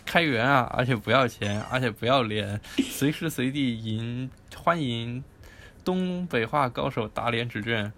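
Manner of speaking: playful Dongbei-flavored reading; hammy Northeast pitch for a project; northeastern Chinese accent. Shown as a demonstration. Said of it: "那你来念一下吧".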